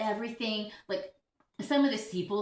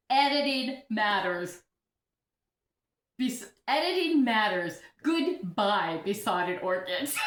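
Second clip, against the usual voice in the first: all caps comment; 4 dB louder, slower than usual. Retold or imitated. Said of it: "He said, in all caps".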